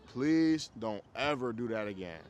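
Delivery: slow, measured retold frustration; frustrated firm plea. Frustrated dad to mom, slow firm plea. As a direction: spell out a firm request, word by word. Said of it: "that was my tone".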